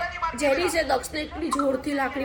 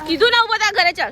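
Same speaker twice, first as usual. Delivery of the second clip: loud, higher-pitched command; angry order; 5 semitones higher, 5 dB louder than usual. Real, not acted. Mother ordering playing child up and home, angry. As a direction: order it loudly, losing patience.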